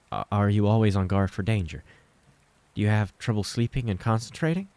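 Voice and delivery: lightly voiced mother reciting symptoms; textbook questions. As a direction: run through the checklist like a textbook. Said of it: "as if memorized from textbooks".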